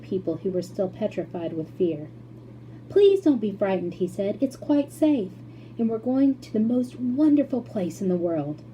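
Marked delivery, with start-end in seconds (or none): 2.9-8.6 put-on gentle, soothing boy; calm the frightened old folks; reassuring. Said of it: "tried to calm".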